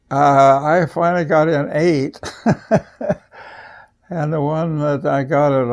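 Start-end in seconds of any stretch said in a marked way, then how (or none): 0.1-2.2 laughing. Real, not acted. Laughing over the missions story. 2.2-3.2 high burst of laughter. Real, not acted. Laughing over the missions story.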